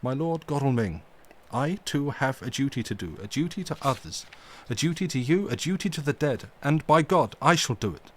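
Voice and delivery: mildly stern, firm and deliberate; a touch of stern gravity in the old professor; grave and stern. Acted. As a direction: hold your ground with dignity. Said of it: "said gravely and sternly".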